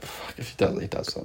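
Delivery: resigned whisper, barely voiced. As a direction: breathe it out, too tired to care. Retelling numb resignation in bed.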